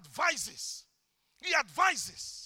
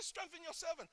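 prayer; 2 semitones higher, 15 dB quieter than usual. Shown as a demonstration. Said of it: "I say".

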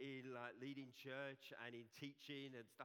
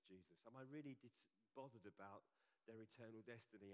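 earnest prayer; 5 dB quieter than usual. Retold or imitated. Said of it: "most significant prayer that I personally ever pray".

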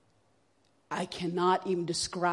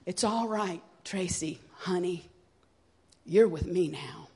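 gentle retold whisper. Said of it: "he was whispering to me".

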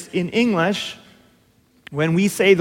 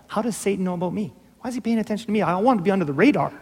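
softer, quick anxious protest; a hushed, hurried touch of worry; mock worry; 2 semitones higher, 4 dB quieter, faster than usual. Preacher voices a listener's reaction to Jesus, mock worry. Imagined worried reply to Jesus.

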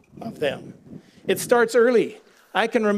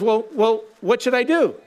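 higher, eager plea; eager question; 3 semitones higher than usual. Retold or imitated. Man on the cliff asks God what to do, higher and eager. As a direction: ask upward, hopeful and a little frantic. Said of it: "And the guy says".

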